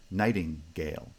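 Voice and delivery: main stress on the start of nightingale; primary stress on first foot. Shown as a demonstration. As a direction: nightingale in two feet, first syllable strongest. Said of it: "it's primary stress".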